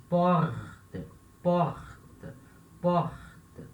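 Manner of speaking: 'porte' with a strong throat R before the T; 'porte' with its R rasped clearly; strong French R. Shown as a demonstration. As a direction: hold the guttural R in 'porte'. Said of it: "Esse R, ele é bem forte".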